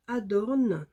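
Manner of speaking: English words in a French accent; French speaker attempting English pronunciation; self-mocked English accent. Real, not acted. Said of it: "avec mon super accent".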